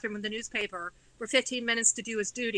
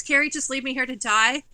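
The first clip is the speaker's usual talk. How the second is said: dad begging; 6 dB louder than usual. Retold or imitated. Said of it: "he was literally begging me".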